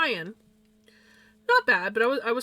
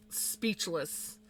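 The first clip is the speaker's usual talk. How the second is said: at a loss; 3 semitones lower, 8 dB quieter than usual. Real, not acted. Pauses, at a loss for words.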